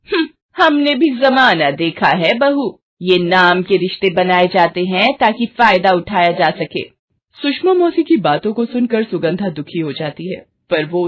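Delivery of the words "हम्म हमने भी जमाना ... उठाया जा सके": a touch of the scornful elder; lightly voiced know-it-all aunt; meddling old aunt. Aunt warning her niece-in-law about neighbours, knowing and disapproving.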